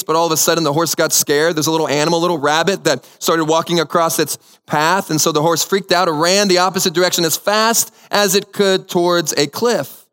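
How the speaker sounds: normal talking voice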